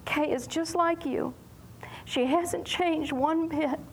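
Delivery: breathy unvoiced whisper, slow at the end; whispered prayer. The young man whispering his prayer to God. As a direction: hush it like a private confession to God.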